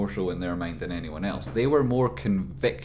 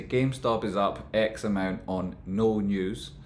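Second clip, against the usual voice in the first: mock headline tone; slower than usual. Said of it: "in a TradeSpotting tone of voice".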